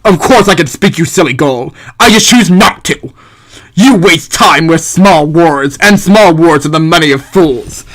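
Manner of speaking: lightly voiced haughty philosopher, scornful; Thomas Hobbes. Philosopher answers those who say he can't speak, lightly voiced disdain. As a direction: put on a hint of a disdainful thinker. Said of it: "I'm gonna give Hobbes this voice".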